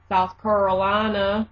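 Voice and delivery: mock Southern pronunciation of "Carolina"; Southern accent. Shown as a demonstration. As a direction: repeat it as a Southerner would.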